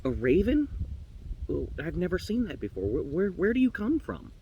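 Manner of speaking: wondering, stammered questions; puzzled little bird meeting a stranger; startled canary. Acted.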